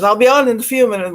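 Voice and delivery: mock impatient quote. Imitating the streamer's quick promise to viewers. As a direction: rattle it off like his empty promise. Quoting him saying few minutes.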